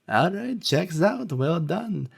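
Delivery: lightly voiced lunch lady. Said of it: "And she goes".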